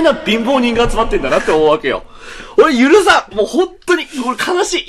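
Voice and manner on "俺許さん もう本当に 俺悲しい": high, whiny mock grief; mock sulk. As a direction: whine it in mock sorrow. Mock sulking.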